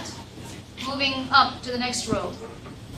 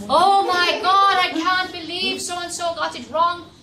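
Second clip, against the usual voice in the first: higher, slow, drawn-out dismay; hammed-up shocked teacher; imitating a fed-up chemistry teacher; mock exasperated teacher; 5 semitones higher, 4 dB louder, slower than usual. Teacher's outburst mocked in story.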